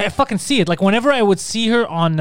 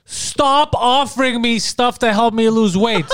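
mock whiny complaint; 4 semitones higher, slower than usual. Mocking Demi Lovato's complaint.

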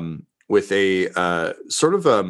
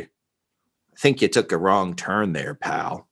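gruff guard. Acted. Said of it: "you just hear him say".

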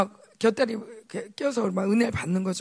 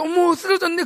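mock gasp of surprise, raised voice; surprised exclamation; 6 semitones higher, 5 dB louder than usual. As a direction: act out the startled onlooker. Grandmas falling while dancing. (깜짝 놀란 듯한 감탄)

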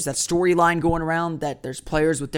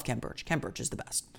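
whispered aside; 5 semitones lower, 15 dB quieter than usual. Real, not acted. Aside praising favorite player.

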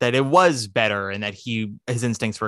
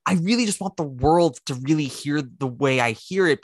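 dreamy idealist. Retold or imitated. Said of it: "portrayed Ryan Gosling's love of jazz as".

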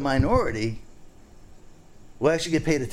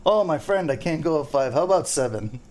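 higher-pitched, lightly mimicked haggler; snook gypsy; 3 semitones higher than usual. Snook gypsy haggling with a fishing guide, lightly mimicked. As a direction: lightly imitate a pushy bargain hunter. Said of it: "with the snook gypsy, they always say".

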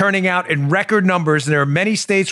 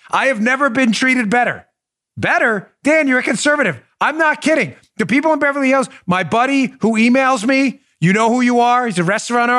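excited; 6 semitones higher than usual. Real, not acted. Excited shoutout to Beverly Hills.

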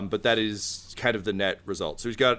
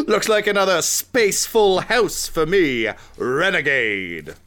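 smug tittering rival; 7 semitones higher, 6 dB louder, slower than usual. Acted. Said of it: "he's like".

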